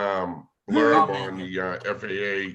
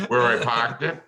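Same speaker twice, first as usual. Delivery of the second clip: New England accent with dropped r's; playing up a New England accent; 3 semitones higher, 3 dB louder than usual. Shown as a demonstration. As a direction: say "parked" the New England way, without the r. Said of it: "New Englander accent".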